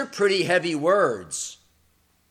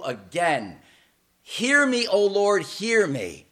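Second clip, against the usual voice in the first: fervent prayer. Acted. Elijah's prayer on the mountain.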